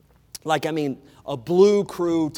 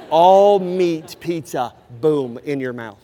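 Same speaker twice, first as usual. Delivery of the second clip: laughing relish; 4 semitones lower, 4 dB louder, slower than usual. Real, not acted.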